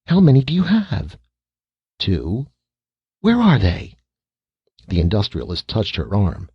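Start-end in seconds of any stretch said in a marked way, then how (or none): 0.1-4.0 alarmed. Acted. Mother alarmed, questioning.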